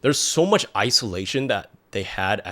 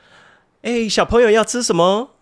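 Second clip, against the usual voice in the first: put-on much higher, sing-song auntie voice cooing at a little kid; friendly Taiwanese shopkeeper; 14 semitones higher, 8 dB louder than usual. Shopkeeper coos at the little American-born boy, high and sing-song. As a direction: coo at the child like a doting vendor. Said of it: "The people would be like".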